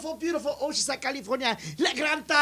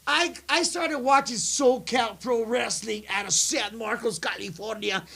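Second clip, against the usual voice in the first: wrestling promo voice. Pretend. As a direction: hype it up like a ring promo. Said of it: "You're doing this thing with your voice".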